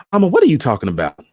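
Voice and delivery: quick and loud, pressing her mother; quick, pushy challenge to Mama; urgent question. Acted. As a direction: fire the question fast at Mama.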